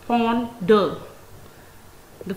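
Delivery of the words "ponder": "ponder" in two separate syllables. Shown as a demonstration. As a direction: break "ponder" in two with a short gap. Word split into its two syllables.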